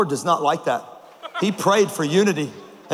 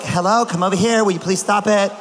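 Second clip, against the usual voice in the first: sweet mom voice. Retold or imitated. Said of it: "everybody else gets the sweet voice".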